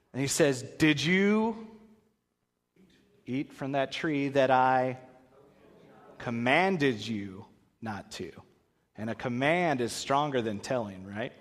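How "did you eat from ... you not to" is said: slow, deliberate questioning; slow stern question; stern God. Acted. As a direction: drag it out like a disappointed father. God questions Adam, retold.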